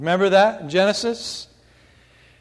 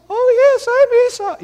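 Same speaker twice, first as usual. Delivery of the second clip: much higher, squeaky and thin; Jacob's natural voice; 7 dB louder than usual. Retold or imitated. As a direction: pitch it way up like a boy caught out. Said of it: "trying to make his voice probably sound like".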